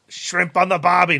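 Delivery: put-on joke Australian-Irish accent. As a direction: do a hammy Aussie, passed off as Irish. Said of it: "that's my Irish accent".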